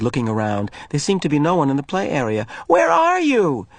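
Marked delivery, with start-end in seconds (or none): 2.7-3.7 high, slow calling voice; slow call searching for a friend. Acted. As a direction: call into the empty field.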